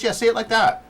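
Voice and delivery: teasing, loud and high; laugh-filled high ribbing; high excited teasing. Acted. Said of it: "the high-pitched, like, voice".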